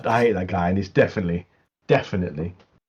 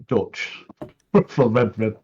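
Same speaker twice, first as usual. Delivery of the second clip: laughing; much slower than usual. Real, not acted. Laughs through the name.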